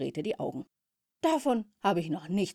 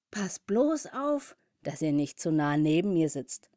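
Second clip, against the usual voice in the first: mocking wasp. Slim wasps mock the bumblebee.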